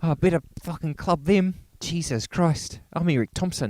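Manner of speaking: loud, high Kiwi voice; hammed-up New Zealand accent. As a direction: rant as a mock Kiwi actor. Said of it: "you do your New Zealand".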